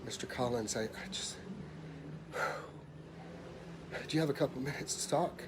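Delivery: soft, hesitant, sighing delivery; grave insurance man. Retold or imitated. Insurance man calling a client with bad news, soft and hesitant. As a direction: break bad news reluctantly over the phone. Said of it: "give you the impression".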